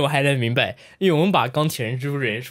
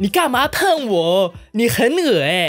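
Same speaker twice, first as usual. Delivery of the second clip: put-on high, slow, playful Taiwanese-accented whine; teasing Taiwanese-accent lilt; mock Taiwanese accent; 6 semitones higher, 4 dB louder, slower than usual.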